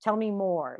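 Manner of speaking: a husband soothing his upset wife; gentle empathy. Retold or imitated. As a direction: calmly reassure someone who is upset. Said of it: "my husband comes up to me and says".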